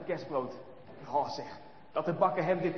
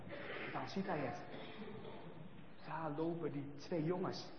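hushed suspense; 3 semitones lower, 13 dB quieter than usual. A narrator's reading. Suspense, boys spotted.

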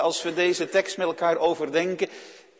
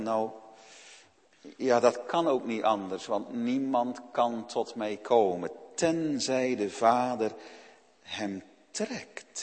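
quiet voice of the Lord; 6 semitones lower, 6 dB quieter than usual. Retold or imitated. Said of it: "Dan zegt de Heere".

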